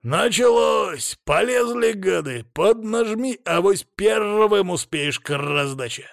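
high, drawn-out cawing shouts with rolled r; excited familiar calling out. A narrator's reading. Flying familiar urging the hero onward, high excited calls. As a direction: squawk urgent directions from the air.

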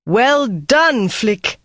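high, loud joyful cheer; whoop of joy. A narrator's reading. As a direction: cheer it out, head thrown back. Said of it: "gave a whoop of joy".

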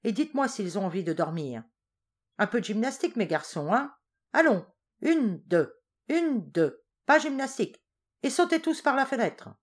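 a general mockingly drilling his soldiers; shouted drill orders. A narrator's reading. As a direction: call the count like a drill sergeant. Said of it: "cria Garcia".

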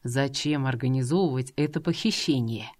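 a man calmly negotiating with a kidnapper at a cliff edge; calm negotiator. Acted. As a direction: talk her down patiently.

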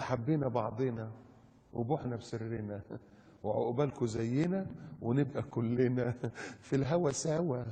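slow, soft drawn-out recital; mock sentimental. Preacher parodies national unity love lines, mock sentimental. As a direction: recite it slowly and softly, mock-dreamy.

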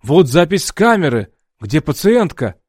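loud, pointed demand; doctor demands the patient back, indignant. A narrator's reading. Doctor confronting Alex.

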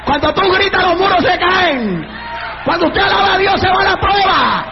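driving, rhythmic shouted sermon; fervent revival preacher's cadence; full-force preaching. Real, not acted. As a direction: hammer out each promise like a refrain. Preaches in rising chant.

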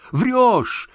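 high, piercing scream of accusation. A narrator's reading. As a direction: hurl it at her at the top of the voice. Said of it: "заорала Надя".

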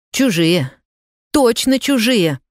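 sudden angry outburst, pitch jumping up on точно; flaring up. Acted. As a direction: flare up, throw the word back at him. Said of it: "вспыхнула снова Зина". (вспыхнув, гневно)

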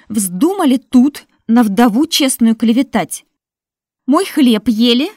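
loud, high wailing reproach; loud lament. Acted. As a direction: wail your grievance at them. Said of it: "причитала Марфа".

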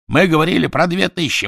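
high, loud raging denial; furious shouting. Acted. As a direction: bellow the denial in fury. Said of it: "в бешенстве закричал Квидер".

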